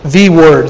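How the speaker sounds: "the Word" with THE leaned on, set apart; emphasize "the" before "Word", pausing after; stress on THE. Shown as a demonstration. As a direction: hit "the" as in THE one Word. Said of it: "with the emphasis on the".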